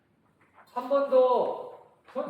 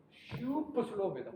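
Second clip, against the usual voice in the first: 슈퍼 stretched out long and softer; drawn-out super slow; 7 dB quieter than usual. Shown as a demonstration. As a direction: drag out the first syllable of 슈퍼 슬로우. Stretches the name of slow speed.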